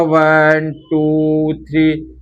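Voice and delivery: slow, drawn-out counting; children's counting recitation. Shown as a demonstration. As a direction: count it out like a little kids' lesson. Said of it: "इस type से आपने counting पढ़ी होगी".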